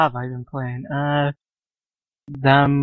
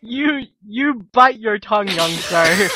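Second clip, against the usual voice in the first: gentleman voice; 5 semitones higher than usual. Acted. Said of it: "You just got like a gentleman".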